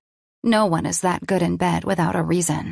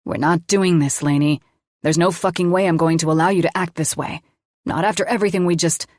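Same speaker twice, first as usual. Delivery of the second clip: firm anger; faster than usual. Acted. Man refusing to let her act this way, forceful. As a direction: shut the fight down hard. Colin pushing back, angry.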